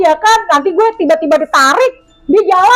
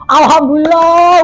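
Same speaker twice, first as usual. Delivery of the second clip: louder, slow drawn-out thanks; joyful relief; 3 semitones higher, 5 dB louder, slower than usual. Retold or imitated. Hiker hearing rescuers arrive, overjoyed. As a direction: let the relief burst out. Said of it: "Udah kayak menang lotre".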